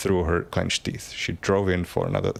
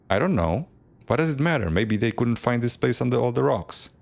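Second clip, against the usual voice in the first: put-on upset child near tears; 5 semitones higher than usual. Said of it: "Callista is ready to cry".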